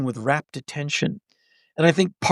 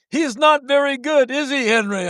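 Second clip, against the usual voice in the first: higher, tipsy heckling aside; drunk stage whisper; 8 semitones higher than usual. Retold or imitated. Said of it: "A minute later".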